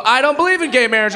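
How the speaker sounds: light mock-prim delivery; bird lips. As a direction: purse the lips and say it primly. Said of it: "my little bird lips go".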